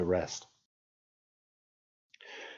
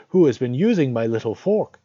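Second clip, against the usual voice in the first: higher, louder indignant dwarf; fifth dwarf; 5 semitones higher, 6 dB louder than usual. A narrator's reading. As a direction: squeak it out as a cross little dwarf. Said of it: "The fifth said".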